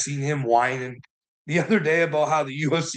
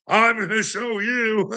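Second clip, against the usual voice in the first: hammed-up sneering villain, pitched higher; mock villain Sandler; 9 semitones higher than usual. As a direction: play a gloating movie villain, half-joking. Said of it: "behind the scenes going".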